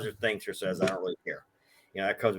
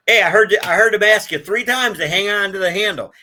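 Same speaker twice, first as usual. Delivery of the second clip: loud, higher scolding call; retold shout; 7 semitones higher, 9 dB louder than usual. Agent loudly tells the passenger he was warned. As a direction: bark it at the careless passenger.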